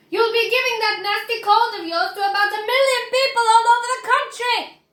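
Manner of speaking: high, loud, fast scolding; fussing mother. Acted. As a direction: nag him about his cold.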